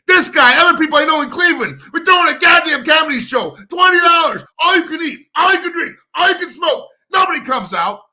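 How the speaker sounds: shouting, pitch climbing, hammering each phrase; angry rant. Real, not acted. Comedian ranting to the stream about empty shows, shouting. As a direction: yell it out like a fed-up promoter.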